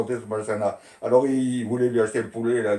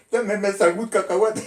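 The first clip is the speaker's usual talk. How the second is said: higher, amazed exclamation; mild mock surprise; 9 semitones higher, 4 dB louder than usual. Boys tasting peanut butter for the first time, amazed. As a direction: marvel at the strange taste.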